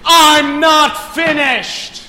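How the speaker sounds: slow, high, drawn-out bellow; imperious courtroom roar; indignant shout. Acted. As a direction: thunder at the accused for interrupting. Judge cuts off early plea.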